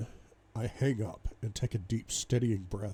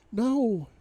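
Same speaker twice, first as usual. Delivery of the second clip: high, loud, emphatic denial; 12 semitones higher, 5 dB louder than usual. A narrator's reading. Wife denies it on phone, emphatic. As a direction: cry it out firmly, pitched far up.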